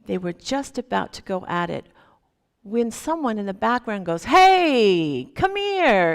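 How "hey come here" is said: put-on high, lilting call of a kind old man. Old Japanese man calls to the drunk in a lilting voice. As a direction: sing it out gently, inviting. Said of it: "in this wonderful voice, / lilting voice".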